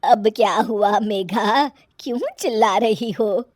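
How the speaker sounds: lightly voiced mother-in-law, drawing out the question; a touch of tired exasperation; weary mother-in-law. Weary mother-in-law answers the shouting.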